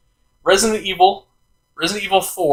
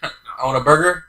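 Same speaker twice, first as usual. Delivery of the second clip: quoted comedy bit; 6 dB louder than usual. Retold or imitated. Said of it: "Speaking of stealing jokes".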